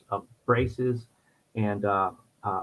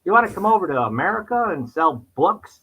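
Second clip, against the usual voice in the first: put-on admittedly poor English accent, pitched up; mock English accent, higher; bad English accent; 7 semitones higher than usual. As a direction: play an English recruiter pitching kids, badly imitated English. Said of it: "I can't do one".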